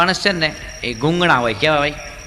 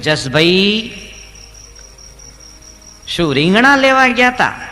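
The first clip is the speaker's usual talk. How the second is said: loud and much higher shout; deaf man's shout; 5 semitones higher, 5 dB louder, slower than usual. Retold or imitated. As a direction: yell the question like you're deaf. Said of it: "બેરો જોરથી બોલે". (બહેરા માણસની ઊંચી બૂમ)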